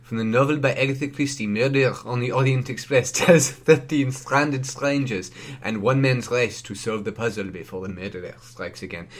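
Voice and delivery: badly faked French accent; hammed-up French detective reading a synopsis; Poirot, terrible French accent. Co-host reading the film synopsis, terrible French accent. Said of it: "terrible French Poirot voice".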